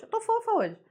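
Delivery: a high, cutesy squeak about being cute; playfully high little-girl tone. Pretend. Teacher teasing her students, in a high cutesy voice.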